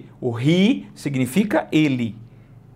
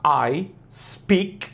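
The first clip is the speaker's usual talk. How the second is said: I speak English said slowly and clearly; slow model sentence; much slower than usual. Shown as a demonstration. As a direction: spell out I speak English for a learner. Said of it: "E aí ela vai falar".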